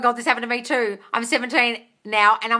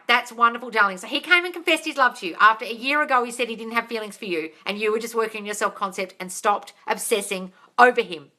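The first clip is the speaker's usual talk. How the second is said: normal talking voice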